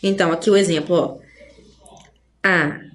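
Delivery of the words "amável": "Amável" split into "A", "má", "vel" with long pauses; syllable by syllable. Shown as a demonstration. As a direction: give each syllable of "Amável" on its own, lower. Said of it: "O ma aqui é paroxítona".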